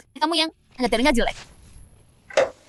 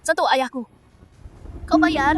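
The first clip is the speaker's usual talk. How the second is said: angry warning; 3 semitones higher, slower than usual. Acted. Daughter defends her father.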